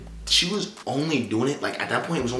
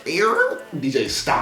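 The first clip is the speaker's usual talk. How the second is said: mock shout; 4 semitones higher, 4 dB louder, much slower than usual. Imitating the call to stop the DJ.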